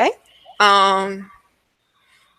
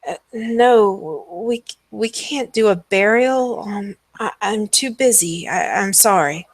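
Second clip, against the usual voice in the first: dazed priest. Acted. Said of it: "is just kind of out of it almost".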